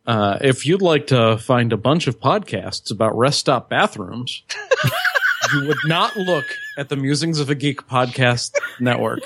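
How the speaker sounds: laughing mid-line, then carrying on; laughing through it. Shown as a demonstration. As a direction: try to read it and crack up. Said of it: "Take two".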